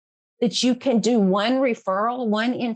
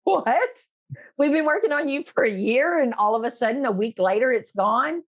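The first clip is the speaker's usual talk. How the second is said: surprised disbelief; 2 semitones higher, faster than usual. Retold or imitated. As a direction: act out the therapists' stunned disbelief. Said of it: "And they're like".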